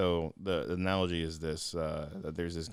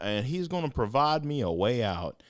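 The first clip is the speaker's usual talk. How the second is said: Obama impression; 8 semitones higher, 5 dB louder than usual. Flood victim refusing rescue, in an Obama voice. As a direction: preach it like Barack Obama. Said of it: "a little Barack Obama impression in there".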